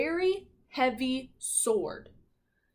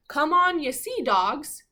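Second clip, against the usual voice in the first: mild captain's call; 5 semitones higher, 6 dB louder than usual. Retold or imitated. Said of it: "So he said".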